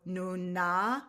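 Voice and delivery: slow syllable by syllable, Nuna drawn out; staccato. Shown as a demonstration. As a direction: sound out Nuna slowly for kids. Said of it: "say it little syllable by syllable".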